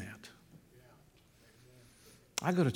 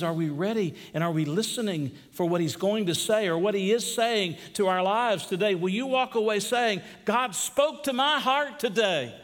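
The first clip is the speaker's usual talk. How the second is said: building, rising pulpit question; preaching appeal; 7 semitones higher than usual. Acted. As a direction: press the appeal, lifting toward the end.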